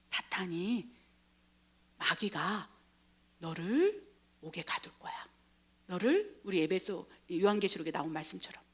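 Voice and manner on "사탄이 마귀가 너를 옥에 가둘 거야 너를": 낮고 작게, 띄엄띄엄; 한 마디씩 끊어 조용히 경고하기; 나직한 경고. Acted. 예수의 경고를 연기. (낮은 목소리로 나직이)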